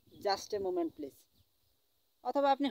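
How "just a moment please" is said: very slow English phrase; very slow teaching demo. Shown as a demonstration. Teacher repeating the phrase for students, very slowly. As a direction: say each word apart for the learner. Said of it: "কি বলবেন?".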